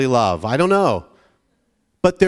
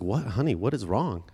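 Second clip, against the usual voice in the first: lightly acted soft, lower-pitched concern; concerned dad; 5 semitones lower, 7 dB quieter than usual. Dad asking his bawling daughter, gentle concern. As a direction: gently ask an upset child. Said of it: "she was bawling".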